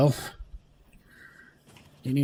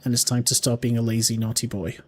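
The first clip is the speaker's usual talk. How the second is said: brisk mock telling-off, dropping at the end; quick mock scolding; 2 semitones lower, faster than usual. Telling himself off for being lazy, quick mock scolding. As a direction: rattle off the scolding faster. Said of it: "How's that?".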